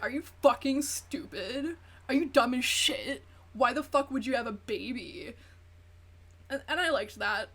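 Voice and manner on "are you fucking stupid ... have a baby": stepdad yelling. Retold or imitated. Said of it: "somebody's stepdad was like".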